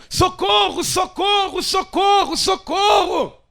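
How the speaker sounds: loud, high repeated cries of socorro; shouting for help. Acted. Disciples in the sinking boat calling out, high desperate shouts. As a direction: scream for rescue over the storm. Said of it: "E eles gritam".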